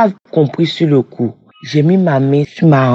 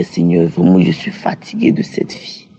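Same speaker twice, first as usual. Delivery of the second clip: weary prayer; 8 semitones lower than usual. Retold or imitated. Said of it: "Je priais".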